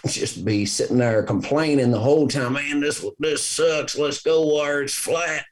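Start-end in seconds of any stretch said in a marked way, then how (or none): 2.5-5.4 put-on whiny kid. Kids whining on a hunt.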